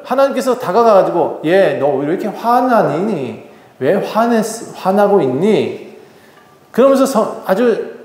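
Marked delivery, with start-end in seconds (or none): 1.5-6.0 slow, drawn-out gentle questioning; patiently ask, stretching the words; calm, unhurried voice of God; gentle reasoning. Acted. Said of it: "조근조근히 얘기를 하셨어요".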